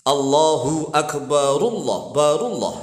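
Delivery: "Akbarullah" sung as one joined word; linked reading. Shown as a demonstration. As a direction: say "barullah" with the r flowing into Allah. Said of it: "Dilatih coba".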